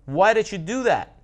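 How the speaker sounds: hammed-up betrayed frog; outraged frog. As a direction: yell it while going under. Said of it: "the frog's like".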